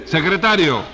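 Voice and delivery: loud official call. Acted. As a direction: call the secretary to attention. Judge calls out to his secretary.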